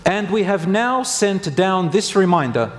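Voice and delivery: slow, deliberate verse reading; scripture recitation. Acted. Preacher quotes a Quran verse to congregation, slow solemn recitation. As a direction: give each phrase of scripture room, slowly.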